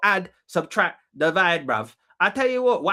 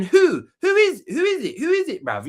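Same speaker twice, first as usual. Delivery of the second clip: owls voiced; 12 semitones higher than usual. Owls voiced hooting who.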